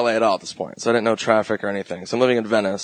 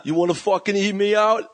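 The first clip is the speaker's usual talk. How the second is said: higher bully line through laughter; laughing mock bully; 7 semitones higher than usual. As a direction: repeat the taunt while cracking up.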